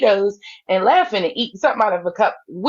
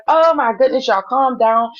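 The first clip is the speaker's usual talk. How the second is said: imitated exasperated plea; 3 semitones higher than usual. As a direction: act out a flustered peacemaker. Voices Peach trying to calm everyone.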